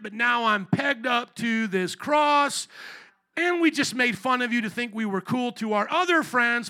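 lightly acted scared criminal; mock thief on the cross. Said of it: "basically saying".

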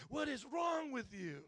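slow, high telling-off; acted-out angry boss; exasperated scolding. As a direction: drag out the disbelief. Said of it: "He was all mad at us".

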